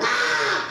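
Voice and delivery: retold sobbing cry; mock wail. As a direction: let out her relieved wail. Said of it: "She went".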